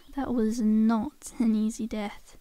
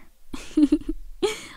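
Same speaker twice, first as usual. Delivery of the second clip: laughs; 4 semitones higher than usual. Acted. Laughing at own impression.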